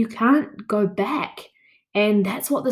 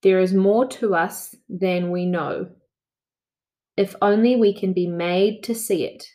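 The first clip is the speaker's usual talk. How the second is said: slow reading. Shown as a demonstration. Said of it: "nice and slow".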